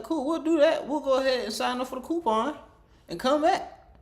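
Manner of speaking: high, giggly quoted agreement; giggling high imitation; laughing mock reply. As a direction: laugh through the eager reply.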